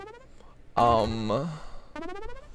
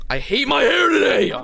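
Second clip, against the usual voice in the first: high shouted mom complaint, much higher; mock mom; 10 semitones higher than usual. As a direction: shriek it like a fed-up mom. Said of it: "your mom's probably like".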